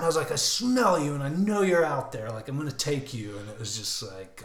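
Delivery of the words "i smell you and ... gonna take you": raised, taunting call that eases off; yelling. Retold or imitated. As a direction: start loud and high, then settle down. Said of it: "I was just yelling".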